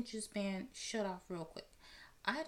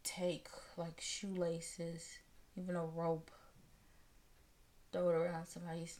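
whispered; 4 semitones lower than usual. Real, not acted. Confessing a dark urge.

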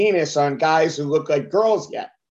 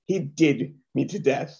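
slow, softer imitation of poor Irish; bad Irish accent; 3 semitones lower, 5 dB quieter, slower than usual. Comic mimics the actress's line, slow bad Irish accent. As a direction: drag out a clumsy Irish accent. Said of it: "But he, she goes".

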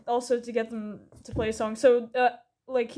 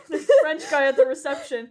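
amused, a little higher and louder; giggling aside; 3 semitones higher, 6 dB louder than usual. Real, not acted. Host giggling over the French restaurant guy, amused. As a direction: say it through giggles.

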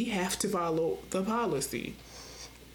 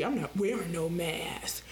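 mock tough guy; 4 semitones lower than usual. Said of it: "like they a real G".

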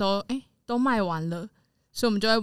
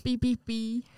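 bleeped out; 3 semitones higher, slower than usual. Pretend. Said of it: "逼掉，逼掉".

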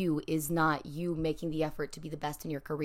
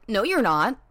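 louder, mocking villain of a bad day; louder teasing taunt; 3 semitones higher, 5 dB louder than usual. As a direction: gloat like the day itself is out to get you. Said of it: "the day would be like".

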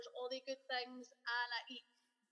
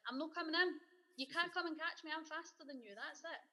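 put-on cheeky kid taunt; 5 semitones higher than usual. Kid taunting mum back.

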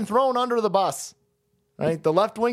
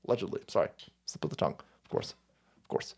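mock apology; 13 semitones lower, 10 dB quieter, much faster than usual.

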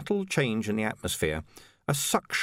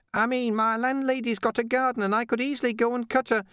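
much higher, hesitant and faltering; faltering Ping. Acted. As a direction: trail off unsure. Ping keeps talking.

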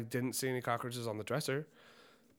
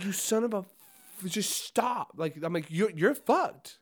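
exasperated scolding; 6 semitones higher, 4 dB louder, slower than usual. Retold or imitated.

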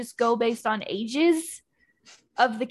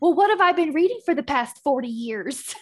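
mock-exasperated, slightly raised retort; eye-rolling grandmother; 3 semitones higher, 4 dB louder than usual. Granddaughter retelling grandma's reaction to publishers, mock exasperation. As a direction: imitate an indignant, eye-rolling comeback. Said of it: "my grandmother rolled her eyes so hard".

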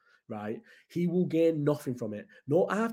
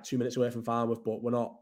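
ordinary talk, nothing marked

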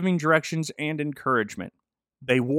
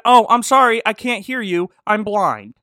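sarcastic comeback; 6 semitones higher, 6 dB louder than usual. Acted. Judge's comeback quote.

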